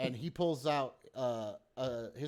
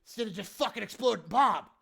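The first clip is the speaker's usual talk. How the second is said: high, louder, acted reproach; exasperated reproach; 7 semitones higher, 4 dB louder than usual. Hobgoblin to players who jumped the gun, exasperated. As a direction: chide them in appalled disbelief.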